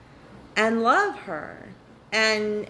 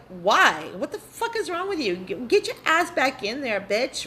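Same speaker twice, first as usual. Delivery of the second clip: mock harsh parent; 3 semitones higher than usual. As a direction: play a cruel parent snapping at a kid, half-joking. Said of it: "You wouldn't look at her and be like".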